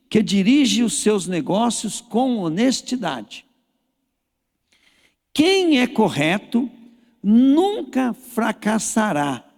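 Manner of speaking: slow, measured Bible reading; scripture reading. Acted. Preacher reading a psalm to the congregation, slow and solemn. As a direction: read the psalm slowly and solemnly.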